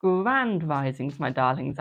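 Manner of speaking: slow, sung-out welcome; drawn-out intro greeting. Acted. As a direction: stretch out "grand risings" warmly.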